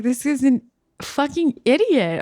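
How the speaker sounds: high, loud, disbelieving rant; indignant outburst. Retold or imitated. Comic venting about the drunk host, loud and indignant. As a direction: blurt it out in outrage.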